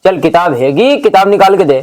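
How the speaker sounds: loud, impatient order; acted stern demand. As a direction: demand it forcefully, volume up. Demanding the boy's book. (ज़ोर से हुक्म देते हुए)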